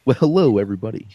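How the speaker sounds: lightly put-on radio announcer welcome; mock radio announcer. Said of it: "when I do the radio announcer voice".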